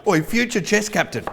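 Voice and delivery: mock yell to the unborn baby; mock call. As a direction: holler at the baby. Calling to baby.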